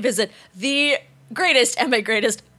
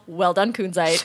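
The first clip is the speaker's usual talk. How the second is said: smug villain whisper; 7 semitones lower, 3 dB quieter than usual. Retold or imitated. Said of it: "clearly saying to himself".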